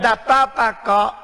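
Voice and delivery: lightly voiced, coaxing and sugary; a hint of the devil sweet-talking a sinner; preacher voicing Satan as a sweet tempter. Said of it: "Ini suara setan yang manis".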